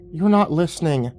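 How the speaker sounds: shot back. Acted. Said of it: "Ian shot back".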